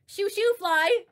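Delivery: high, loud sing-song "shoo shoo fly"; sing-song mock. Shown as a demonstration. Streamer taunting a rival with a high, loud "shoo shoo fly". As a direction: tease it out in a high chant. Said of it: "Or should I say".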